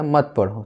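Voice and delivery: मत पढ़ो kept together, falling at the end; मत पढ़ो as a closed, falling phrase; separate phrase after comma. Shown as a demonstration. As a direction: join मत to पढ़ो as one command. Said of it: "उसके बाद अल्प विराम दिया".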